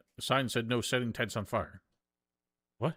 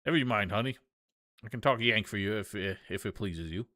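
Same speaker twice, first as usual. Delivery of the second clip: obliging Southern country woman; friendly Southern photographer. Acted. Plays Southern photographer, now friendly.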